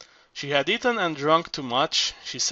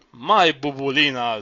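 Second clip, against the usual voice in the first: a rapturous, louder cry of her name; 5 dB louder than usual. Acted. Zorba crying out rapturously to weeping Bubulina. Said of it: "Zorba cried rapturously".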